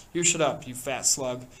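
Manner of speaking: sharp, loud put-down; angry retort. Acted. Boy shouting down Piggy, angry. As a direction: snap at him to shut up.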